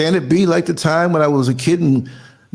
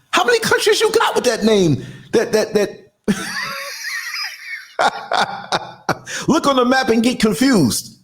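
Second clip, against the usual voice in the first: laughing through the country joke; can't hold back the laugh; 5 semitones higher than usual. Real, not acted. Mocking made-up country names, laughing.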